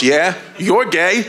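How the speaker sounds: drawn-out, slow and laughing; lightly voiced father, slowly certain; a hint of a knowing dad, slow. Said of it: "He goes".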